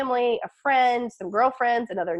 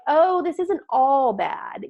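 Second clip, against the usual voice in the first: laughing; 3 semitones higher, much slower than usual. Retold or imitated. Imitating her family, slow and laughing. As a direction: laugh it out slowly.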